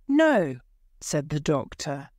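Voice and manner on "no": firm refusal. Acted. Doctor refusing payment.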